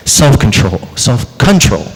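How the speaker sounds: emphasis on "control" in self-control; stress on CONTROL. Shown as a demonstration. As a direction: repeat it, leaning on "control". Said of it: "I put the emphasis on the word control".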